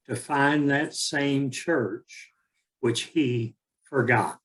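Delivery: measured, deliberate poem reading with long pauses; poem recitation. Acted. Speaker opens a talk with a Rilke poem, measured recitation. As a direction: recite it line by line, leaning on the opening words.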